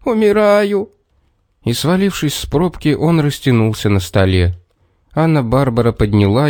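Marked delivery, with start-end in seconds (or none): 0.0-0.9 high wailing "умираю"; moaning lament. A narrator's reading. Little man collapsing from hunger, high moaning wail. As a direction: moan as if dying. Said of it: "застонал человечек".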